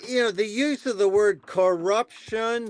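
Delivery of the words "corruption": "corruption" broken into three deliberate beats; "corruption" pronounced in slow, separated syllables. Shown as a demonstration. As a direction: spell out each syllable of "corruption". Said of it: "three syllables".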